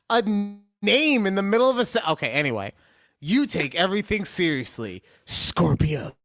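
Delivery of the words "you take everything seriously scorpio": "Scorpio" set apart after a pause; "Scorpio" said separately, as its own phrase; emphasis on Scorpio. Real, not acted. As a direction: give "Scorpio" its own spotlight. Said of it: "should be getting some emphasis to itself".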